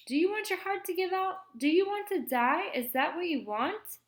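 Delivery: high, emphatic motherly scolding; exasperated scolding. A narrator's reading. Aunt warning Kermit about his heart, exasperated scolding. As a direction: hammer each question at the child.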